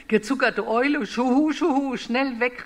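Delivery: a hammed-up owl fleeing; panicking owl. Owl hears she will be eaten, hammed-up panic.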